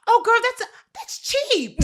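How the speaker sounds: put-on high, loud, airy rich-girl voice; high rich-bride voice. Rich bride brushing off a six-thousand price, high and loud. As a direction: toss it off like money means nothing. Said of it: "she was like".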